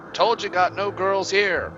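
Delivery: high, impatient hag voice; cranky old witch. Acted. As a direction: snap like an annoyed crone.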